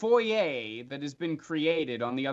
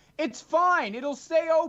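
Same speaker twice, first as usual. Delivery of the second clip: calling out across a distance, pitched higher; 14 semitones higher, 3 dB louder than usual. Voicing a figure who notices the hesitation and calls out: calling out. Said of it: "calls out to you".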